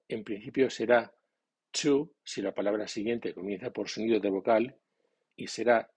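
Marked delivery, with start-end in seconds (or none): 1.7-2.1 "to" said as a short weak tu before a vowel; "to" reduced to a light tu; weak form of to. Shown as a demonstration. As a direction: say "to" lightly, unstressed, as tu. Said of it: "La pronunciación de to, débilmente acentuado".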